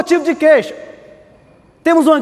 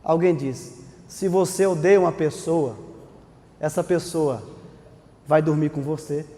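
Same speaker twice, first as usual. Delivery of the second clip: over enunciating; 8 semitones lower, 7 dB quieter than usual. Shown as a demonstration. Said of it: "eu vou falar devagarinho para vocês entenderem".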